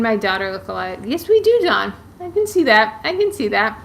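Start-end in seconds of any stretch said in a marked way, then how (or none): 1.0-1.9 high, bright burst of delight. Real, not acted. Delighted reply to a viewer comment. 2.2-3.0 high and louder, delighted; excited agreement. Real, not acted. Repeats her answer to the comment.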